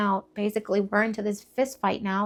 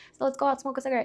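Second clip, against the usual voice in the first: sweet talking; 3 semitones higher, 5 dB quieter than usual. Retold or imitated. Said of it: "sweet talking my dad".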